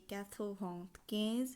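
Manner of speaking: "quatre vingt quinze" slowly, word by word; French pronunciation demo. Shown as a demonstration. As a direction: set "quinze" apart with a lift. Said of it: "পঁচানব্বই উচ্চারণ হবে".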